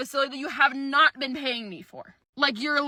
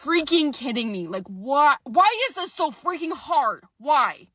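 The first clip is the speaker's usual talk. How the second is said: exasperated outburst; 2 semitones higher, 6 dB louder, slower than usual. Retold or imitated. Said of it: "me and my husband at this point were just like".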